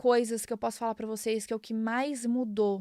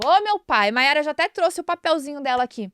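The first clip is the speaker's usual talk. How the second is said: much louder, higher-pitched outburst; real exclamation; 4 semitones higher, 9 dB louder than usual. Real, not acted. Speaker reacting to her own tears, loud exclamation. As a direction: cry out in exasperation at yourself.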